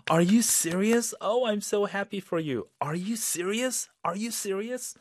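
high, bright delighted disbelief; be thrilled for your friend; excited and happy for someone. Shown as a demonstration. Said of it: "sound very up and exciting and very happy for someone".

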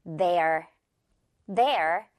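"Their" as one syllable, they and are merged; low, deliberate single-syllable "Their"; contracted they're. Shown as a demonstration. Teacher models the new sound for learners, contracted. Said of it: "their라고 발음이 되겠네요".

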